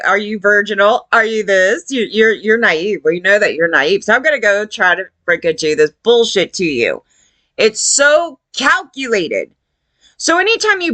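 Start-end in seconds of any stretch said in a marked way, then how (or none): 0.1-7.0 imagined predator. Retold or imitated. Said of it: "he's probably sitting there going".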